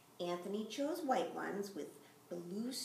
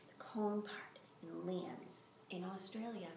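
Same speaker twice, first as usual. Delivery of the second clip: whispering; 6 dB quieter than usual. Acted. Spiteful wish trailing off.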